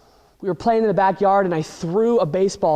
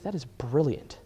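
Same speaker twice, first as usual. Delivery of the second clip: much softer, lower awed aside; hushed thought; 5 semitones lower, 10 dB quieter than usual. Acted. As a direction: say it under your breath. Ben's inner thought.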